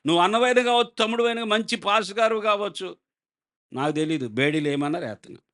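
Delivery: a duty-bound constable shrugging off his brother; dismissive officer. Acted.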